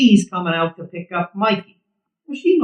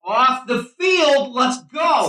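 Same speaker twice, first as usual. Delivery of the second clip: shouting; 6 semitones higher, slower than usual. Acted. Calling players off field.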